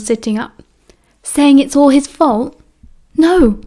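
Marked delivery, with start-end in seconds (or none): 1.2-2.6 high, loud, accusing challenge; sharp accusing tone. A narrator's reading. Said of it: "at James's tone". 3.2-3.6 high, loud startled no; alarmed denial. A narrator's reading. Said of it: "Peter looked alarmed".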